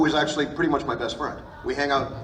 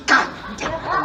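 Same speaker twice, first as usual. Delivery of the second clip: usual speaking voice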